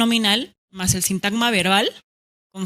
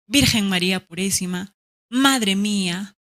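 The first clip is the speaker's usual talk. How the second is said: dismayed exclamation. Shown as a demonstration. Teacher giving an example of a shocked exclamation. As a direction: sigh it out in mock dismay.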